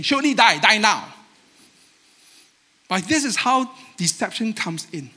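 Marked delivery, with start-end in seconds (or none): 0.0-1.1 exaggerating. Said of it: "Eve exaggerate and say".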